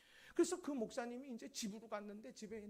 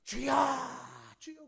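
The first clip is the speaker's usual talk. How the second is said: congregation's prayer cry; 5 semitones higher, 16 dB louder than usual. Retold or imitated. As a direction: imitate everyone crying out at once. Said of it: "다들".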